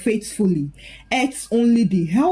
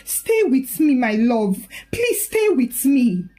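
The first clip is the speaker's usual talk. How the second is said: desperate plea; 3 semitones higher than usual. Acted. Cradling dying husband.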